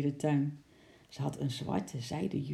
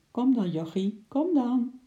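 higher, sweetly coaxing voice; 8 semitones higher, 4 dB louder than usual. A narrator's reading. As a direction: coax a pet to come to you, pitch climbing. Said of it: "met een lieve stem". (met een lieve, hogere lokstem)

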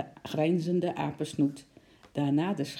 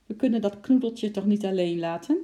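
put-on higher, louder pleading child's question; little girl asking; 4 semitones higher, 5 dB louder than usual. A narrator's reading. Lotje asks father about the squirrel, higher, pleading child.

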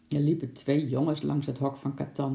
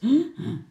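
imitated sawing; 11 semitones higher, 6 dB louder than usual. A narrator's reading. Imitating a saw at work.

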